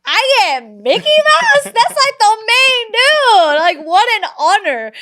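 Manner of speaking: squeaky high cartoon mouse voice, drawn out; mock Mickey Mouse. Aunt playing Mickey for her nieces, high squeaky cartoon voice. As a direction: gush like a flattered cartoon mouse. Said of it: "And I was like".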